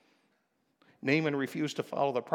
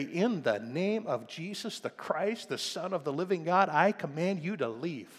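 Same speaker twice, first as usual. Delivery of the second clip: calm authority; 3 semitones higher than usual. Shown as a demonstration. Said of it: "you don't have to yell at the devil".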